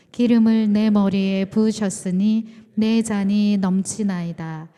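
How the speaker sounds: loud, steady recitation of the psalm; unison scripture reading. Real, not acted. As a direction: read aloud for the whole room to follow.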